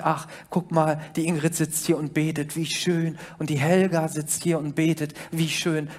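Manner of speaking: a hint of a smug, gracious God looking round. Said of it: "huldvoll um sich her und sieht". (leicht gespielter huldvoller Gott)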